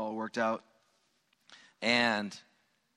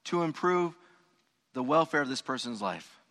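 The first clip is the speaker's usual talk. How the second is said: earnest prayer; 6 semitones higher than usual. Pretend. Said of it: "And then we say".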